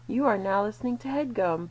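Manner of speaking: put-on a light New Zealand accent; Kiwi accent. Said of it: "but in her Kiwi accent".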